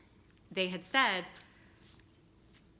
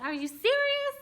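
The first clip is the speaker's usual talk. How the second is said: high, loud squeal of disbelief; shrieking mock disbelief at the news of twins; stunned disbelief; 6 dB louder than usual. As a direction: replay the shocked "are you serious" on the ultrasound. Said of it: "I said".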